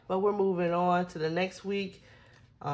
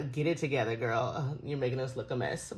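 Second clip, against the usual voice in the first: scolding herself; 5 semitones lower, 4 dB quieter than usual. Real, not acted. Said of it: "I don't know why".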